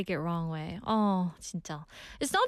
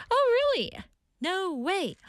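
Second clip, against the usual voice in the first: mock surprise; 10 semitones higher than usual. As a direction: gasp it out in disbelief. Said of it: "I would have said back".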